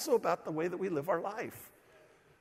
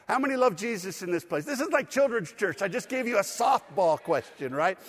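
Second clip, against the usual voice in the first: higher, livelier repeat of the question; rallying the crowd; 3 semitones higher, 3 dB louder than usual. Real, not acted. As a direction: ask it brighter to get more hands. Asks again after counting only four responders.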